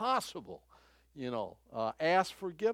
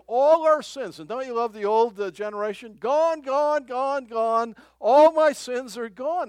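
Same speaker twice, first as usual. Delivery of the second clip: higher, much louder ecstatic proclamation; joyful preaching shout; 7 semitones higher, 12 dB louder, slower than usual. Real, not acted. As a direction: belt it out with rising joy. Preaching climax, chant.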